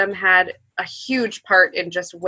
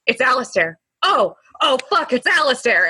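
excited; 4 semitones higher than usual. Retold or imitated. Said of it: "I got really excited".

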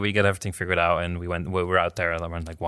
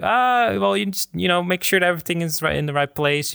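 higher, lightly voiced bossy instructions; mock-quoted cleaner; 9 semitones higher than usual. Imitating the cleaner's demands for the friend, higher voice. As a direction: read out his list of demands in a higher put-on voice.

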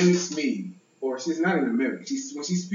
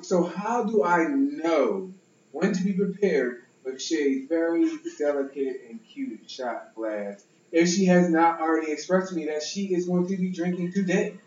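Shay voice. Shown as a demonstration. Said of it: "this is my Shay voice".

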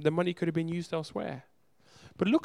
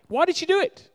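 incredulous why; 9 dB louder than usual. Pretend. Preacher voices the crowd's question.

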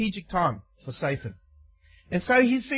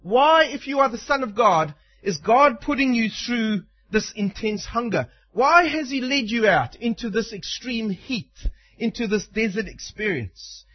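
a hint of a sly tempter, coaxing; lightly voiced devil sowing doubt; Satan's taunting voice. Preacher voicing Satan tempting hungry Jesus, sly. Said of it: "He says it like this".

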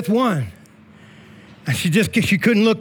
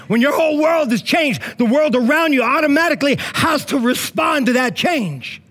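raised, forceful repeat of the line; mock angry preaching; 3 semitones higher than usual. Pastor repeating the line to the congregation, mock angry. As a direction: hit it hard like you're mad, then laugh it off. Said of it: "Sounds like I'm all angry".

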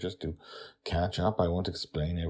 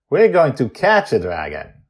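put-on child voice; 8 semitones higher, 14 dB louder than usual. Joy correcting Charlie.

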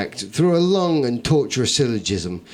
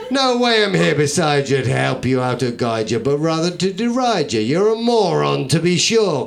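mocking badger. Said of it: "quoth the badger".

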